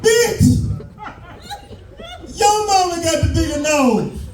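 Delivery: a high, hammed-up offended retort; a dad stung, snapping back at the wife; a high, mock-indignant shout; offended mock yell. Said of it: "He instantly took offense".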